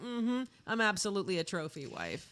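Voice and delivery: lightly snarky self-assurance; imitated snark. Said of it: "Being snarky herself".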